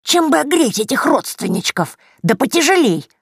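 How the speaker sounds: a cackling granny confiding a secret; grandmotherly witch voice; old crone voice. A narrator's reading. Yagusya's crone voice.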